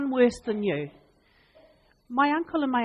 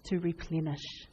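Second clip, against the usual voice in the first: gentle divine voice; 4 semitones lower than usual. Acted. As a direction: speak it like a caring shepherd. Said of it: "and say".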